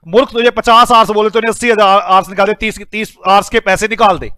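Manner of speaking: loud-starting acted reprimand; mock scolding. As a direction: tell off a foolish manager, punching the first words. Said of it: "मैं पहले डांट रहा हूं".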